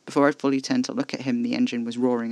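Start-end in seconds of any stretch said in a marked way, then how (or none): none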